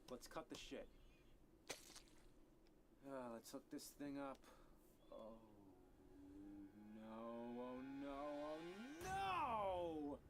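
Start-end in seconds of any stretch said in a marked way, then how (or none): 5.1-10.2 mounting dread. Acted. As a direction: panic that grows until it bursts out. Hooking up the dreaded switchbox.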